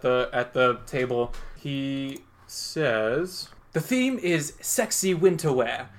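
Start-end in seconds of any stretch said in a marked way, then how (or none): 3.7-5.9 lightly voiced game show host; announcer voice. GM voices Harry Potter host.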